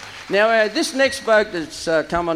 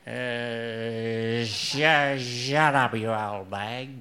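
husband's retort; 8 semitones lower, 4 dB quieter, much slower than usual. Acted. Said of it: "said her husband".

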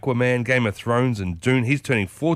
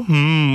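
pondering hmm; 3 semitones higher, 3 dB louder than usual. Pretend. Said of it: "things that make you go".

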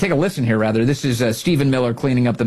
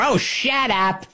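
mock shut up; 9 semitones higher, much slower than usual.

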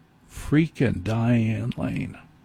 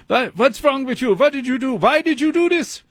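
very high-pitched mock German outburst, climbing as it goes; hammed-up German doctor losing it; yelling in German accent; 13 semitones higher than usual. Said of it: "he's yelling at me with a German accent".

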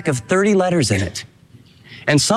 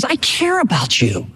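sincere caring; slower than usual. Retold or imitated. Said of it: "This is".

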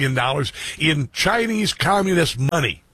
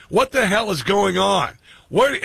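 higher-pitched, drawn-out mock outrage; mad GPS voice; 5 semitones higher, slower than usual. Host mimics his GPS scolding him, mock mad. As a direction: imitate an indignant, nagging GPS. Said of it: "She was sounding mad".

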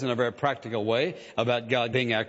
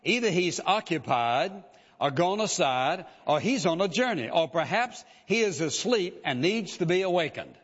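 mocking taunt; 3 semitones higher than usual. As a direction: jeer at them like a mocking prophet. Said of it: "Elijah mocked them and said".

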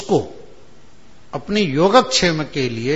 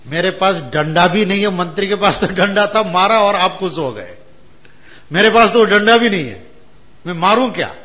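higher, louder teasing complaint; mock-plaintive Shiva; 4 semitones higher, 5 dB louder than usual. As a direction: playfully ask if he should hit too. Shiva pleads to Shankaracharya. (शिवजी का हल्का शिकायती, चिढ़ाता स्वर)

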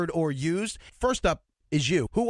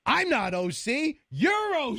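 mock retort; 6 semitones higher than usual. Host acting out a high school slang spat, mock retort. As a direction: throw the accusation back, pitch jumping up.

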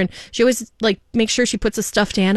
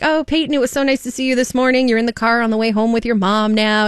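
lightly voiced radio host, higher pitch; radio host shout-out; 4 semitones higher than usual. Radio host greets a child on the air, imitated shout-out.

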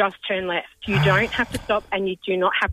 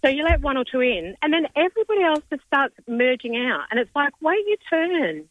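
hoarse cold voice, holding back yelling; croaky from a rip cold. Real, not acted. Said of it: "really badly wants to yell, but she can't".

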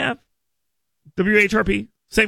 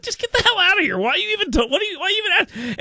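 higher, hammed-up outraged boss voice; mock exasperated brush-off; 10 semitones higher, much faster than usual. Host imagining station bosses throwing him out, mock outrage. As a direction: play it as a fed-up boss shooing him out. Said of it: "They'd be like".

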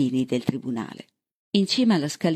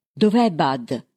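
mild read-aloud shout, a bit louder; 5 dB louder, slower than usual. A narrator's reading. Bird bursting into the sheriff's office, mild shout. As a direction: call it out, urgent but restrained. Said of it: "gridò Bird".

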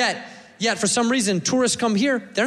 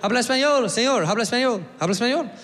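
higher-pitched Spanish questioning; questioning staff; 4 semitones higher, faster than usual. Acted. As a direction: fire the question at him repeatedly. Staff quizzing Brad in Spanish.

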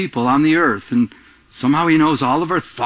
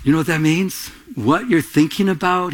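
ordinary talk, nothing marked

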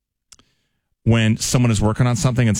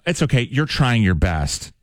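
condescending; slower than usual. Retold or imitated. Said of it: "this seems condescending".

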